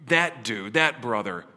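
hammed-up buddy picking favourites; a light impression of a guy ranking people; mock bro talk. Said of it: "he looks at you and goes".

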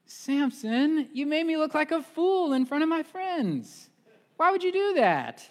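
high, hurt, wheedling woman's voice; whiny pleading Delilah. Retold or imitated. Delilah whining at Samson for the secret. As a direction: guilt him like a wounded lover.

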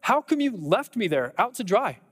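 high, accusing plea to God; crying out, forsaken. Acted. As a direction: plead upward in hurt protest, then drop at the end. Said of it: "that's what David's crying out".

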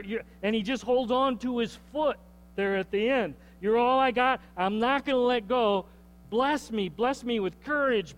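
cling and beg, building toward the word boldness; pleading prayer. Acted. Jacob begging Jesus for blessing, desperate pleading.

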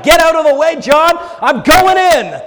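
loud, high, pushy; bold shove aside. Retold or imitated. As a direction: barge past John boldly. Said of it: "is like".

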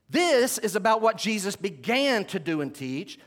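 "began" punched with a lift; emphasis on BEGAN. Shown as a demonstration. Preacher contrasts two books for listeners, stressing "began". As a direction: lean hard on "began" to set up a contrast. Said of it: "The emphasis on the word began".

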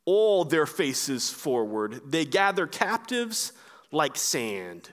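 measured, weighty Bible reading; scripture reading. Acted. Preacher reading God's answer from Habakkuk to the congregation, solemn. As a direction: read God's words with gravity.

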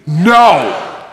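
firm, loud NO; a forceful, decisive refusal; authoritative no. Shown as a demonstration. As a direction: say it with authority, like you mean it. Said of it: "say it with authority, like you mean it".

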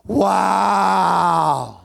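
stunned at her beauty; mock jaw-dropped wonder; awestruck. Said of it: "all I can remember my mind going was".

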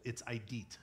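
idit said as AI-dit, stress on the first syllable; pronouncing idit for the congregation; Greek word demo. Shown as a demonstration. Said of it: "Can you just say that?".

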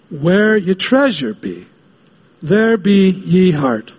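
slow, lightly voiced pirate; a hint of pirate drawl. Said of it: "talks like a pirate".

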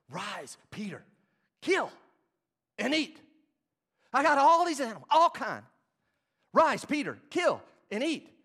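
loud, high divine command; booming heavenly command. Acted. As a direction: call out the order from heaven.

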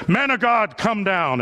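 lightly voiced commander's order; a firm, evenly pressed military command, a touch put on; militaristic commander. Commander orders Elijah off the mountain, mildly militaristic. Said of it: "in his deep militaristic voice".

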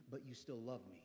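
soft, low-voiced plea to God; hushed prayer. Shown as a demonstration. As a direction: whisper it like a private prayer. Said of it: "look at God and say".

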